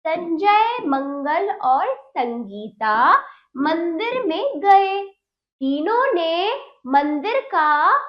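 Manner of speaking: slow, clear classroom read-aloud; reading to children. Shown as a demonstration. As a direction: read each word slowly for young pupils. Teacher reads practice sentences.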